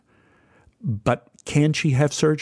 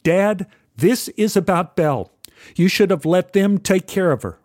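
mildly forceful; 4 semitones higher than usual. Retold or imitated. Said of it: "Robert said forcefully".

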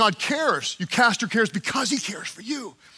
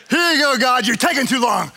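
impatient mock; 2 semitones higher, 4 dB louder than usual. Mocking own impatience with God.

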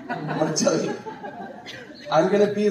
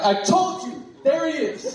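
joyful cry; 12 semitones higher than usual. Pretend. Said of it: "I'm gonna be looking at him like".

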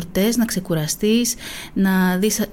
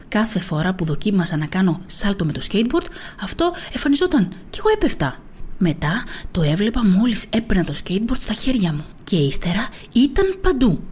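gentle storybook reading voice; story narration. A narrator's reading. Teacher reading a picture book to listeners, storytelling voice. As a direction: read it like a bedtime picture book. Reads children's book aloud.

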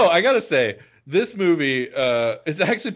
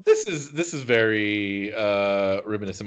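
voice cracking; 4 semitones lower than usual. Real, not acted. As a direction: voice breaks on the word. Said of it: "My voice just broke right there".

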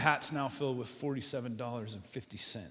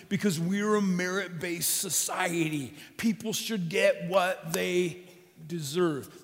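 indignant shopkeeper; 5 semitones higher, 5 dB louder, slower than usual. Acted. Voicing the angry shopkeeper.

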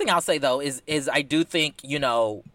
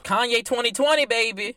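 mock campaign hype; 9 semitones higher, 3 dB louder than usual. Hyping a rapper's campaign.

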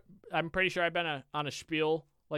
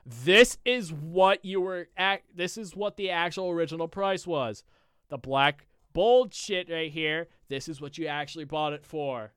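exasperated repeating; 3 semitones higher, 6 dB louder, slower than usual. Retold or imitated. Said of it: "I was repeating myself".

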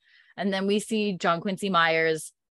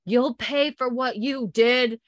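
slow, higher-pitched threat; mock yell; 5 semitones higher, slower than usual. Unseen man threatening the militia, mild mock yell. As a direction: stretch it out as a mild shout. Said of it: "we hear this man yell".

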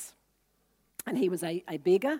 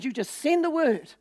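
centurion's urgent plea; 6 semitones higher, 5 dB louder than usual. Retold or imitated. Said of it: "He said".

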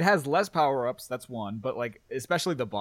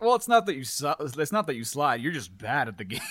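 super sassy; 3 dB louder than usual. Retold or imitated. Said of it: "super sassy and be like".

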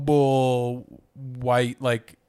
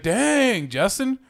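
impressed exclamation; 10 semitones higher, much slower than usual. Retold or imitated. Recalling being amazed by the movie, high-pitched impressed gasp. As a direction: pitch jumps way up on an amazed "Dang, Justin". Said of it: "I was like".

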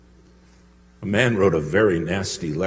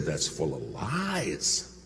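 secretary; 5 semitones lower, 6 dB quieter, much slower than usual. Retold or imitated. Secretary voiced in story.

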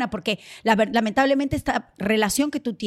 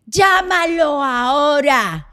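imitating jealous partner; 3 semitones higher, 7 dB louder than usual. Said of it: "Entonces me decían".

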